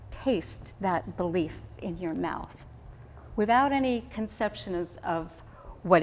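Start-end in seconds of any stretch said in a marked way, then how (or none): 0.1-2.6 savoring slowly. Shown as a demonstration. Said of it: "close your eyes for a minute".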